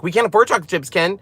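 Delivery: high, rushed mock panic about money; a hint of a frantic husband; panicked husband. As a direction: imitate the husband fretting over bills, fast and high. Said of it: "He's like".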